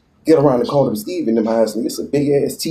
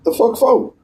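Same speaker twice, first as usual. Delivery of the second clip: high incredulous squeak; disbelieving yelp, voice jumping up; shocked; 11 semitones higher, slower than usual. Retold or imitated. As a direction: retell the shock with a pitched-up jump. Retells shocked reaction to jail news.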